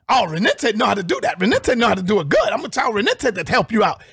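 a lightly mocked polite tone. Mocking what the rival said, lightly polite. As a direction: imitate his fake politeness a little.

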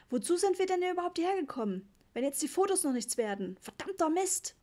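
furious dad. A narrator's reading. Papa furious at the broken camera.

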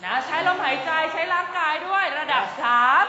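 spook your friends like a ghost. Shown as a demonstration. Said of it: "เราจะเล่นเป็นผีนะคะ เราจะหลอกเพื่อน". (เสียงผีหลอกสูงขึ้น)

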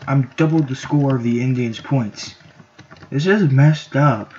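slow, lightly put-on grumbling voice; a mild drawn-out mock voice; odd put-on voice. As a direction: drag the words out in a silly voice. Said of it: "why am I talking like this?".

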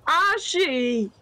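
drawn-out, slow mopey whine; mock depressed. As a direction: plead slowly like a sulking child. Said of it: "Now you sound depressed".

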